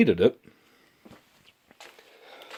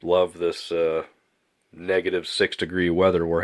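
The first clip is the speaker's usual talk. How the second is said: stuffy, nasal, blocked-nose voice; nasally voice. Real, not acted. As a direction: talk through a clogged-up nose. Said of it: "pardon my nasty, nasally voice, all clogged up".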